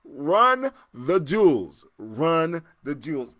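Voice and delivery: slow, drawn-out quoting of a line; slow drawn-out quote. Retold or imitated. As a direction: drag the words out slowly, like reciting a slogan. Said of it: "Like Kurt say".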